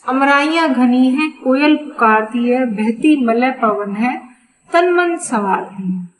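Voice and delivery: measured verse reading with small pauses; poem recitation. Acted. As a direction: recite the lines of a Hindi poem.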